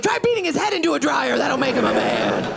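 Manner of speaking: high taunting yell; mock yell. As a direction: shout the taunt after them. Yelling at departing family.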